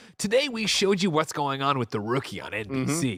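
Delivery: cinema pre-show narrator, announcer voice. Describing how a woman sounds, then imitating her: Cinemark pre-show narrator voice. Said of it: "what she sounds like is she's like".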